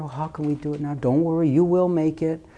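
acted motherly reassurance; tender mommy. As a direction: soothe a child gently, like a mother. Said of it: "mommy is just always so tender".

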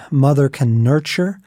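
ordinary delivery

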